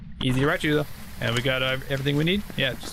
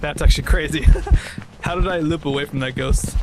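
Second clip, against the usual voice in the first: loud disbelieving excitement; loud amazed; 8 dB louder than usual. Real, not acted. Amazed at looping the ghost.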